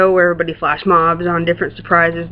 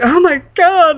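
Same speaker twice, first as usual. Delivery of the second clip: retold shock; 9 semitones higher than usual. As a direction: exclaim it as if overwhelmed. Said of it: "I was just like".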